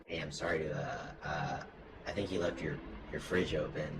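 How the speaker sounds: lightly voiced hesitant, apologetic character, softly; Carol. Carol politely saying the fridge is open, hesitant impression. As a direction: apologise haltingly in a slightly put-on voice. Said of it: "maybe you want Carol's voice".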